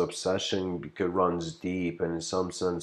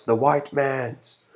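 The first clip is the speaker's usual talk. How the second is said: slow, higher, louder answer; retold shout; 7 semitones higher, 5 dB louder, slower than usual. Girl answering the teacher, shouting slowly. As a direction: shout it back like a verdict. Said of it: "one of them shouts".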